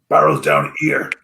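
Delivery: very low-pitched gruff servant voice; Hargle. Acted. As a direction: drop right down for the servant. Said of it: "says Argle".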